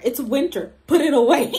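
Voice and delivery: playful telling-off, growing loud; mock scolding. Reminding her friend it is winter, loud mock scolding.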